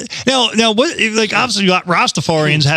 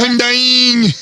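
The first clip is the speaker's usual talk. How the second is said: laughing; 8 semitones higher than usual. Real, not acted. Echo amid laughter.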